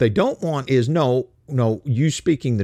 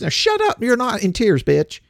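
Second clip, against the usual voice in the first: angry snap; 10 semitones higher than usual. Real, not acted. Snapping at fake mourners.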